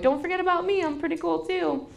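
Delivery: put-on high, pleading little-kid voice; imitating a needy kid. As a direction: play the son begging not to be forgotten.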